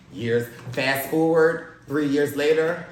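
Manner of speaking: light announcer voice, punching key phrases; podcast announcer intro. Acted. Host welcomes listeners to the podcast, announcer style.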